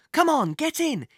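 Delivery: high, loud urgent call; shouting. Acted. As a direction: shout it across the car. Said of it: "he shouted to Thomas".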